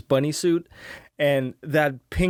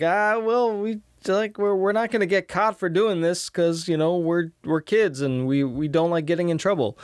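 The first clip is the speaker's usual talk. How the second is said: higher mock-innocent kids; breezy fake excuse as they run; kids excusing themselves; 4 semitones higher than usual.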